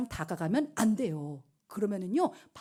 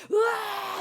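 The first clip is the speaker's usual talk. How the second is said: high-pitched furious yell; acted roar of rage; 10 semitones higher, much slower than usual. King storms out to the garden, mock enraged yell. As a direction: cry out as anger overflows. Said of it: "분노에 차올라서".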